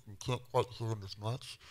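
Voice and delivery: fading voice. Shown as a demonstration. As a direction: voice going faint and far off. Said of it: "to starting to sound like this".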